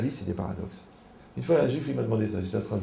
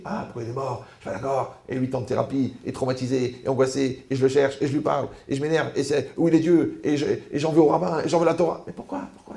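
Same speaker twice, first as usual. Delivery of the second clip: mock grieving protest; 3 semitones higher than usual. Mourner acting out revolt at death.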